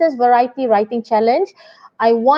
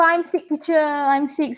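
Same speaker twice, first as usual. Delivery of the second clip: drama queen whine; 3 semitones higher, 3 dB quieter than usual. Shown as a demonstration. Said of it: "you want to be a bit drama queen".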